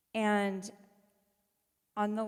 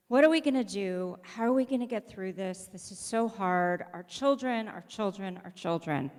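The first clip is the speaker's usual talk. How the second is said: vendor's grief fading; 5 dB louder than usual. Retold or imitated. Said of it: "And he starts to cry".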